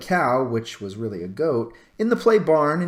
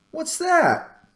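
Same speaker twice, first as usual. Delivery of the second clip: much higher, startled; a child startled by a scarecrow in her chair; child at dinner spots the scarecrow, startled and higher; surprised question. Acted.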